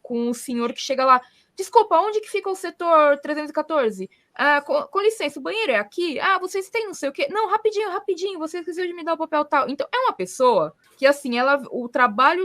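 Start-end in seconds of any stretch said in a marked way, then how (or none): 1.6-9.7 lightly acted higher-pitched visitors pestering a receptionist; interrupting visitor. Visitors interrupting the emergency-room attendant, higher mock pleading questions. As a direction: put on a higher voice of people butting in with questions.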